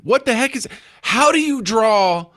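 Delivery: ordinary delivery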